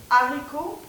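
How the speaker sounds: haricots said with a clear break after les, no z; haricots, aspirated h, no linking; no liaison before haricots. Shown as a demonstration. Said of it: "je vous le dis tout de suite". (haricots sans liaison)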